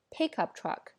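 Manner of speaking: "pick up truck" with the main weight on "pick"; stress on PICK. Shown as a demonstration. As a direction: hit "pick", let "up truck" fall away. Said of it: "这时候重音又跑到pick上去了".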